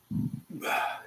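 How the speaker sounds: a quiet burp. Real, not acted. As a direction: let out a soft burp. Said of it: "excuse me, I can't stop burping".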